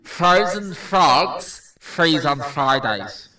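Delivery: slow words round a mouthguard; wearing a mouthguard. Real, not acted. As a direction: speak through a dental mouthpiece. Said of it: "mouthpiece in your mouth".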